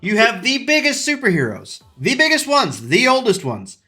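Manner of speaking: worked-up, cursing fan rant; heated rant. Acted. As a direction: vent like a fed-up fan who has had enough. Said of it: "Rant starting now".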